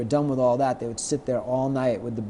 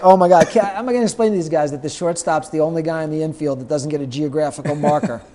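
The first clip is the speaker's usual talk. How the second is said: exasperated; 3 semitones higher, 8 dB louder than usual. Real, not acted. Narrator exasperated.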